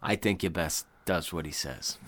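low, soft mock Maine accent. Islander advising someone to obey, low put-on Maine accent. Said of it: "the Maine accent is hilarious".

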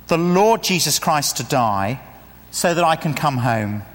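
measured, sincere prayer; earnest prayer with short pauses; prayer read through. Shown as a demonstration. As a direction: pray it through in connected sentences. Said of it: "I'm gonna say it once".

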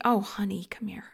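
put-on soft, near-whispered comfort to a child; whispered, trailing to almost nothing, as to a crying daughter; tender comfort. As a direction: hush her gently like a mother holding her child. Mother comforting an imagined crying daughter.

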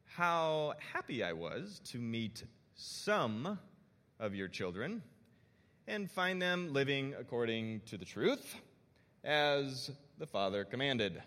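slow, stern dad voice; a hint of a disappointed father. Shown as a demonstration. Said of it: "I'm gonna turn on my dad voice".

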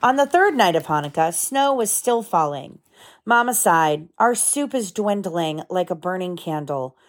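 gentle storybook read-aloud; lively picture book narration with voices; reading to children. A narrator's reading.

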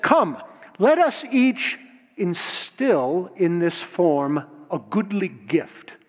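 lightly voiced grand god, slow and stately; Zeus summoning the gods. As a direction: issue a slow ceremonial invitation as ruler. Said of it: "And Zeus said".

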